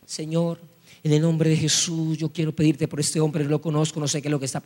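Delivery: low, quick murmured prayer; lightly acted, subdued praying voice; imitated prayer. Hermano starts praying for a stranger, low imitated prayer. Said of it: "comienza a orar".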